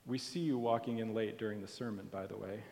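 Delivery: soft, quick murmured aside; mock aside. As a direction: tease the latecomer under your breath. Aside to latecomer, mock whisper.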